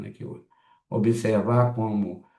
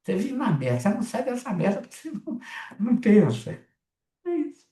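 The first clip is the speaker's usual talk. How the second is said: blunt Brazilian way; 12 semitones higher, much faster than usual. Shown as a demonstration. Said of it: "Brasileiro fala assim".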